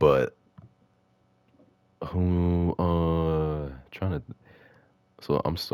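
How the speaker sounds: very slow, halting, stumbling stammer. Speculating about upcoming game skins, stuttering. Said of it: "I'm sorry I'm stuttering so much".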